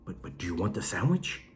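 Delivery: very soft, hesitant question; furtive whisper. Retold or imitated. Scolded inmate still offering the sandwich, furtive whisper. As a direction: persist in a secretive hush. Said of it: "why did you whisper right now".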